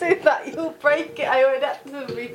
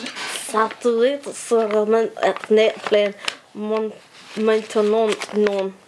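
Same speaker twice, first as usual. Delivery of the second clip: a touch of a husky, lower French accent on the phrase; 3 semitones lower, slower than usual. Shown as a demonstration. Co-host asks for her husky French accent, mildly done. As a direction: put on a husky rock-show French accent for the listeners. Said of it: "Try it in your husky, rock show French voice".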